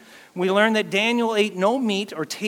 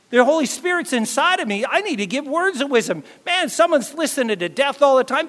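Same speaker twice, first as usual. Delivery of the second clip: higher and louder, fired up; stirred-up resolve; 7 semitones higher, 3 dB louder than usual. Acted. Preacher rousing the congregation, fired-up voice. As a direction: build the fire in the voice. Preacher rallying believers to act.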